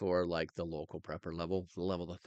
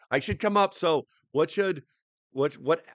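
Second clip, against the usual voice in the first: playful high voice; 8 semitones higher, 8 dB louder than usual. Pretend.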